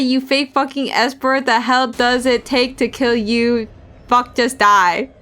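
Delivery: raging street thug, spitting insults; furious thug voice; thugs' inner voices. Acted. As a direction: snarl like a vicious punk.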